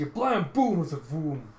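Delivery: punched-out comic-book bangs; imitated gun blasts. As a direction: voice the blasts like sound effects.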